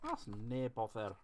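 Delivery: put-on a light, slowed Scottish accent. Grumbling about using the green one, a light Scottish accent. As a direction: toss off the phrase in a mild Scottish accent. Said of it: "why did I just put on a Scottish accent".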